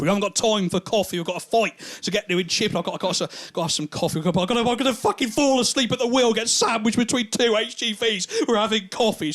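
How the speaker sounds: friends squabbling over coffee in the car; heated bickering. Retold or imitated. Argument about stopping for coffee.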